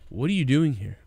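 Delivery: matter-of-fact, lightly mocking; mock sudden calm. Abrupt calm after mimicked panic.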